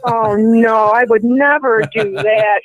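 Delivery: slow, drawn-out playful denial; mock innocence. Caller teased about breaking into the host's house, mock innocence. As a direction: protest slowly with a laugh underneath.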